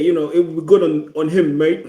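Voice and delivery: put-on light, laughing Australian accent; playfully butchered Australian accent. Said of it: "let me try and butcher his Australian accent".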